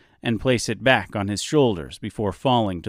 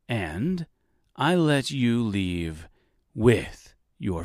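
menacing villain; 2 semitones higher than usual. A narrator's reading. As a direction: savor each word, toying with her. Villain Reginald toying with Dorothy.

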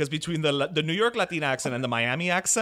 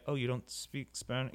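mock surprise; 2 semitones lower, 10 dB quieter than usual. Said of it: "I've been guilty of kinda like".

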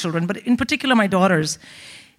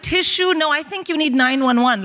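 overwhelmed American roommate; 5 semitones higher than usual. Acted.

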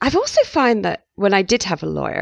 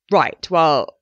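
lightly voiced posh lawyer, a touch louder; mild mock posh solicitor; 4 dB louder than usual. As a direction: put on a plummy lawyer's tone. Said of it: "do this posh voice".

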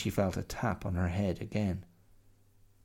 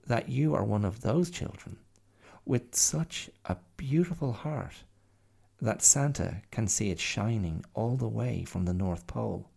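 calm; 3 semitones higher than usual. Acted. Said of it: "said the bear calmly".

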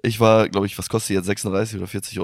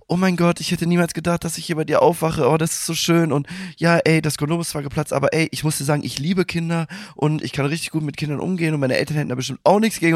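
lightly higher mock girl voice, faster in the middle; gushing girl; 6 semitones higher than usual. Girl in bed gushing about kids, lightly raised mock voice. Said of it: "Sie so".

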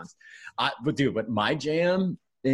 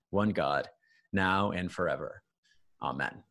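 pious voice. Pretend. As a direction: read it like a devout churchgoer. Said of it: "Put on your pious voice".

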